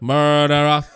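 put-on creepy game girlfriend voice. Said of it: "בסוף כל משפט היא אומרת".

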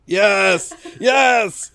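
climbing high squeal of yes; mock triumph. Co-host joins Wong's cheer, squeaky high mock triumph.

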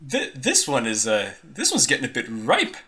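put-on old man recoiling from a ripe body, high then settling; squeamish old man. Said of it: "he says".

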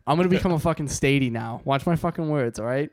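put-on light Boston wiseguy bravado, dropping kid at the ends; a hint of a cocky Boston Statie; half-joking Boston tough-guy swagger. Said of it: "Ethan, I can't lie, that was actually really good".

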